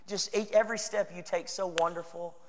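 mock gushing flattery. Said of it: "constantly cheering you on".

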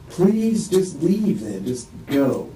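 slow, drawn-out begging to be left alone; weary plea. Retold or imitated. Man retelling how he begged his ex-wife to leave, slow weary plea. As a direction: plead with her to just go, slowly.

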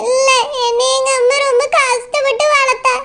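acted crying, wailing the words; weepy, plaintive lament; tearful. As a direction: protest through tears. Runaway bride weeps over her mother.

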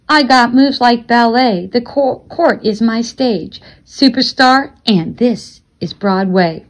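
spoken-word rhyme with slowed line endings; measured beat, pausing after each short line; rhythmic boast poem. A narrator's reading. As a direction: recite it as a swaggering verse. Performs a rhyming court boast.

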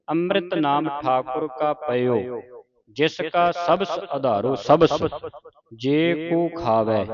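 slow, measured Gurbani recitation; deliberate teaching recitation of sacred verse; scripture recitation. Shown as a demonstration. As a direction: recite slowly, drawing out line endings.

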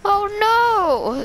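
loud high startled cry; surprised. Real, not acted. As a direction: yelp in sudden alarm. Sudden scare in game.

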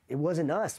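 high-pitched mock protest; retold insistent denial. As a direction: act out pleading not guilty. Insists on innocence.

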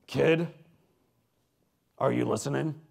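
punched call, then firm question; commanding announcer voice. Retold or imitated. Announcer checking the boy hears him, commanding. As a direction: imitate an announcer demanding a boy's attention. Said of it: "And then he says".

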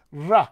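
"ra" with a plain American R; R sound demo. Shown as a demonstration. Coach answers a question on rich R's, first take "ra". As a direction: start the run of R variants on a simple "ra". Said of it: "seven different physical things".

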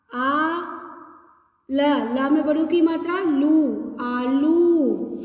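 syllable by syllable, then blended; sounding out words. Shown as a demonstration. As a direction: sound out each syllable slowly. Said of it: "अब ध्यान से देखेंगे".

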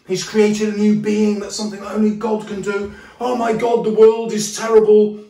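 high, loud despairing wail; hammed-up horrified Lanyon. Lanyon horrified by Jekyll's creation, hammed-up despair. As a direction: overplay the outrage of a prude. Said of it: "He's so shocked that he says".

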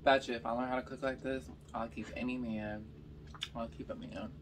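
usual speaking voice

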